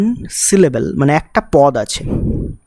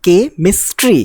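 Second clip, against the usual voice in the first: কে মিস্ট্রি in separate beats, a little higher; syllables separated; 4 semitones higher than usual. Shown as a demonstration. Teacher recapping the three syllables, কে মিস্ট্রি broken into beats. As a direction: set কে apart from মিস্ট্রি with short breaks. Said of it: "এটা তিনবার pause আসছে".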